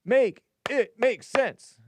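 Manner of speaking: high, loud, slow Make it make sense; exasperated exclamation. Retold or imitated. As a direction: lees het verontwaardigd en traag voor, met nadruk. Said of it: "Triple question mark".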